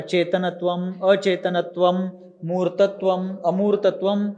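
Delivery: चेतनत्वम अचेतनत्वम said as separate words; अर्थ के लिए संधि विच्छेद; split for meaning. Shown as a demonstration. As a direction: split the sandhi to explain the meaning. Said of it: "संधि विच्छेद करके पढ़ना".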